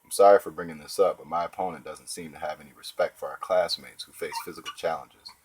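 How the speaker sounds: fake sympathetic. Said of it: "Using the weasel defense, I'd say".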